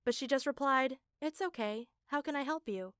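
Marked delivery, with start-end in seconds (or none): 1.2-2.9 weird cult calm. Retold or imitated. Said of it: "Why are you talking so weird?".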